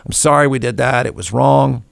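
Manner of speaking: lightly voiced contrite executive; a hint of a sorry spokesman; mock apology. Executive apologizes publicly, lightly mocked. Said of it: "falls on the sword".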